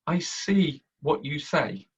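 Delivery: "see" slow, leaned on, falling; stress on see. Shown as a demonstration. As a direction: press on "see". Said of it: "You will see people say".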